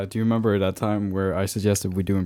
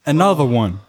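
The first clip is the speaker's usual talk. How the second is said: louder hype-man catchphrase; a DJ and producer; 3 semitones higher, 5 dB louder than usual. Acted. Friend quoting a DJ catchphrase, mock hype announcement. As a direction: punch it like a producer's shout-out. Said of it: "That was D J Khaled".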